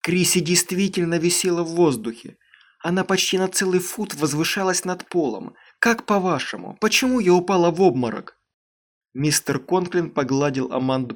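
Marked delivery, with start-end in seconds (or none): 0.0-8.4 urgent, insistent and a little higher; insisting. Acted. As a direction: press them to believe her. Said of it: "настаивала Аманда".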